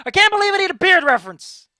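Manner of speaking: high, loud exclamation through a laugh; real amused outburst; laughing disbelief. Real, not acted. Laughing at needing a reference.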